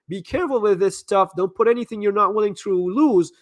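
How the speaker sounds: ordinary talk, nothing marked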